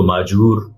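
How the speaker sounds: معجور said with a j sound in place of z; wrong pronunciation. Shown as a demonstration. Teacher showing a common mistake, saying معجور with j. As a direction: say معجور with j, as a mispronunciation. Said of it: "معذور کو معجور".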